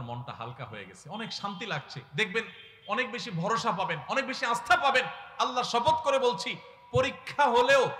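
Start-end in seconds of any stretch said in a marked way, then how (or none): 4.1-7.9 higher, louder and slowing on the oath; a fiery sermon swearing by God; full-force preaching. Acted. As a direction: preach it out hard to the brothers.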